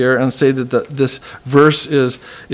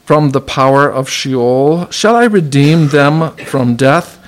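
slow, solemn reading of the passage; preacher reading the verse aloud, solemn; scripture reading. Acted. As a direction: read it out like scripture from the pulpit. Reads Hosea passage aloud.

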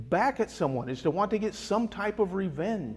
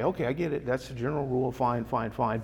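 dismissive agreement; 4 semitones lower than usual. Acted. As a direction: concede it just to move on. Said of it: "we all hear this and we say".

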